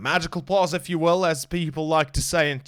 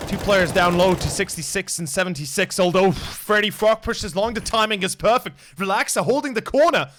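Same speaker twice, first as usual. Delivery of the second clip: louder and higher, building toward oh no; excited call; 3 semitones higher, 5 dB louder than usual. Real, not acted. Caster reacting live as the round swings, building excitement. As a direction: ramp up the call as the fight breaks. Caster calling a big fight.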